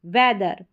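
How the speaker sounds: "वेदर" with open eh in the first syllable; short E sound. Shown as a demonstration. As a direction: model "वेदर" with eh, not ee. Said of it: "क्या पढ़ेंगे, वेदर".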